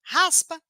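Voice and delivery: RASPA with the R scraped at the back of the throat; strong guttural R. Shown as a demonstration. Teacher showing where the strong R is made, guttural R. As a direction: rasp the first R of RASPA hard. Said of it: "Porque minha língua vai lá atrás na garganta".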